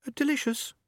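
high, hesitant little answer; timorous young rat. A narrator's reading. Young rat gives its name to an elder, timorous and high. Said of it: "timorously raised a paw".

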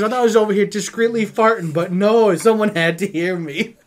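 loud, high retold complaint; hammed-up loud grievance; mock indignant retort. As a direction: protest loudly, playing caught out, easing into a laugh. Acting out a busted farter's retort.

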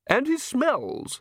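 high aristocratic lady voice, complaining; high-voiced, exasperated Countess; Countess, irritated. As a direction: raise the pitch for an indignant wife. Countess voiced, complaining about servant.

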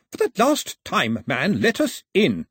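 high, insistent call through a door; exasperated demand. A narrator's reading. Gentleman locked out in the wind, exasperated demand. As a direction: demand entry, out of patience.

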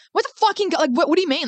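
high, exaggerated demanding tone; mocking impression. Host mimicking friend demanding the garlic, mocking. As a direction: mimic her pushy question.

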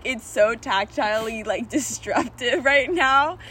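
slow, giggly and spaced out; stoned. Real, not acted. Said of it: "this edible is kicking in hard".

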